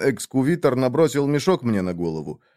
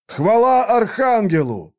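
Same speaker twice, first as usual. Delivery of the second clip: slow, thundering army cry; booming archangel voice; 10 semitones higher, 4 dB louder than usual. Acted. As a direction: roar it like a whole army. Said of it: "прогремело по всему войску". (громогласно, как войско)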